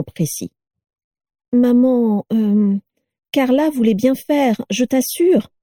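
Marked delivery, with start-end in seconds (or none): 1.5-5.5 higher hesitant stammer. A narrator's reading. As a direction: mumble an excuse to mother. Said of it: "bafouilla-t-il".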